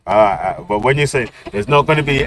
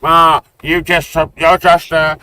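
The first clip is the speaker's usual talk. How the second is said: mocking friends; 5 semitones higher than usual. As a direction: ham up the accusers' taunts.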